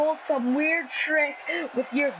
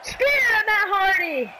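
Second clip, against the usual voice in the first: higher, louder, slower call; excited shout; 6 semitones higher, 4 dB louder than usual. Real, not acted. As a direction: shout the big move out. Commentating a big spear.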